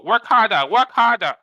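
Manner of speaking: loud, high barked order; mock slave driver. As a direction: shout like a cruel boss. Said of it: "the Chinese money printer go".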